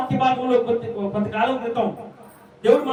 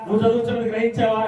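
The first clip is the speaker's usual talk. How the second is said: mocking the question; faster than usual. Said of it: "నా రథం ఏమో పరిగెడతా".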